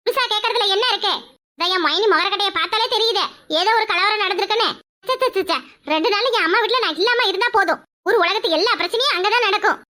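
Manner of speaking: chuckling through the words; smug, amused bragging; laughing boast. Acted. Sister-in-law bragging about family fights, laughing.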